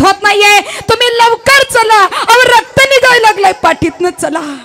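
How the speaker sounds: panicked report. Acted. Messenger reports the beating.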